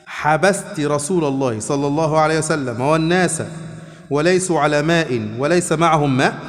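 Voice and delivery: slow, measured formal reading in Classical Arabic; hadith recitation. A narrator's reading. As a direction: read the hadith out, drawing out the phrases. (قراءة حديث متأنية بالفصحى)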